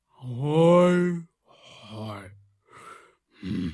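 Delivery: sad sighing moans; a dejected little sigh; sighing groans. A narrator's reading. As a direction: sigh heavily. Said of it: "sóhajtozott Gombóc Artúr".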